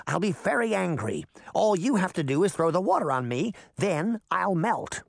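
the witch directing Dorothy's scene. Acted. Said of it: "the witch said".

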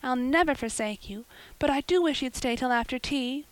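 put-on high, pleading girl's voice, anxious for her friend; eager Anne. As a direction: Anne begs Diana to stay for tea, high and pleading.

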